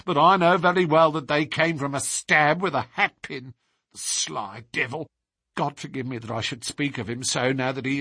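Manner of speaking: lightly voiced bitter, loyal maid; a hint of a stern nurse defending her mistress; indignant nurse. Nurse's long account to Holmes.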